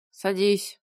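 tipsy driver, hiccuping; drunk with hiccups. A narrator's reading. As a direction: slur it like a drunk. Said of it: "согласился пьяный и икнул".

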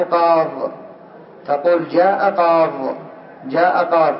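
"قاض" closing on the dad, qaad; final ya dropped. Shown as a demonstration. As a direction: stop on "قاض" with no ee and no -in ending. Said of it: "حذف الياء".

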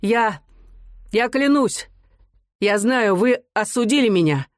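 выше, взволнованно, с запинками; юноша едва справляется с волнением; срывающийся голос. A narrator's reading. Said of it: "срывающимся голосом сказал". (Мазин говорит срывающимся голосом)

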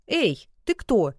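sharp loud call, slowed; громкий вскрик. A narrator's reading. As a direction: call out loud and startled into the dark. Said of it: "вскрикнула Саша громко". (громкий испуганный окрик)

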